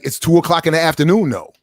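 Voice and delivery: high, quick defensive retort; mildly angry imitation of a neighbor; retold annoyance. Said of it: "he got angry".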